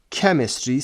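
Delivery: hard K opening "کمیستری", as in key. Shown as a demonstration. Teacher shows students the CH in "کمیستری" as a K. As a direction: say "کمیستری" with a K at the start.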